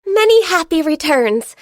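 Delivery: cheerful birthday greeting. Acted. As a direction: wish a friend happy birthday brightly.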